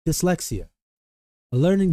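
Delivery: put-on reading-aloud voice, holding back a laugh. Shown as a demonstration. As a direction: try the reading voice without laughing. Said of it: "I'm trying to do it without laughing now".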